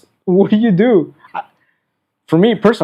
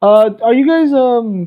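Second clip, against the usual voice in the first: higher-pitched, tentative customer; hesitant customer; 6 semitones higher, 3 dB louder, slower than usual. Retold or imitated. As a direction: imitate a customer feeling out a question. Imitates hesitant customer asking.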